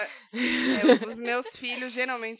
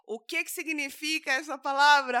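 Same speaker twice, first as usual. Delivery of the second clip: laughing; 3 semitones higher than usual. Real, not acted. Laughing question.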